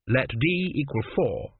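slow, effortful desperate reckoning. A narrator's reading. Camel works out an equation to find water, desperate. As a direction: labour desperately through the sum. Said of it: "thought Hugh Bastard desperately".

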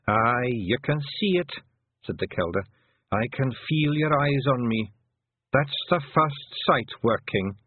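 put-on an old clan mother talking fondly of her lads; old Pictsie mother. Kelder senses first sight.

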